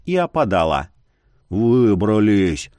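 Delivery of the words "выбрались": low, slow hoarse gasp of relief. A narrator's reading. Youth out of the cave, rasping low and slow. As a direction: rasp it out, spent. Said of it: "прохрипел он".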